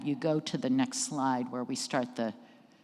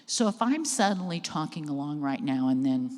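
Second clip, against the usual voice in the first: "and then" left hanging before a long silence; losing train of thought. Shown as a demonstration. Speaker showing a lost train of thought, "and then" left hanging. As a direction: talk along, then break off after "and then". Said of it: "I lose my train of thought".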